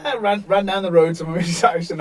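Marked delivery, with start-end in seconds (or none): 0.0-0.2 mock crying cry; imitated crying wail. Running home with his face cut open, imitated crying wail. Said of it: "just like crying".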